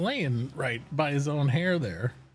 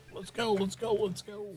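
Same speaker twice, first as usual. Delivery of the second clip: higher, excited let's go; eager dog voice; 11 semitones higher than usual. Retold or imitated. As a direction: voice the dog raring to play. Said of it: "he'll be like".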